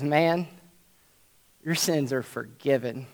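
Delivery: hushed, soft "your sins are forgiven"; Jesus softly telling the paralyzed man his sins are forgiven; quiet pronouncement. Retold or imitated. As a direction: say it low and gentle, almost under the breath. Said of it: "he says".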